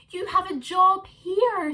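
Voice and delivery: high, slow coaxing wife; wife's voice. A narrator's reading. Wife calling Kevin back to bed, high and slow. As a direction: call him back to bed.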